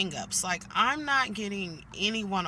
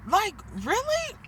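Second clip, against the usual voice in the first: incredulous really; 13 semitones higher, 3 dB louder than usual. Real, not acted. Annoyed at silent coworkers.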